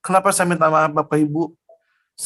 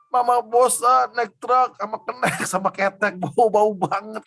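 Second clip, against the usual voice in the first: higher, slow, drawn-out mock complaint; complaining mother, imitated; 6 semitones higher, slower than usual. Mother telling son she is sick of truck rides, imitated complaining. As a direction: play a mother dragging out her grievance. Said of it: "Dia ngomong gini".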